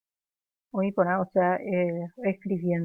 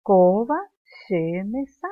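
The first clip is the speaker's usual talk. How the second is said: slow loud drill; 6 dB louder, slower than usual. Shown as a demonstration. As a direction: drill the line slowly out loud. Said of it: "Dice ella".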